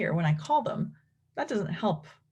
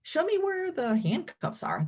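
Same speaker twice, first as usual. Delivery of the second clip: put-on much higher, sing-song prompt to a child; teacher prompting a child; 12 semitones higher than usual. Shown as a demonstration. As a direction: ask it brightly like a therapist cueing a kid. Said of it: "So if we said".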